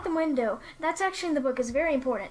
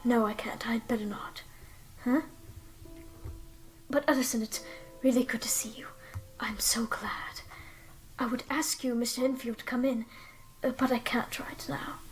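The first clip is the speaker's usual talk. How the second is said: a hint of a weak, half-whispered Jekyll; lightly voiced nervous doctor, hushed; bad Jekyll voice. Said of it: "let me try to do Jekyll's voice".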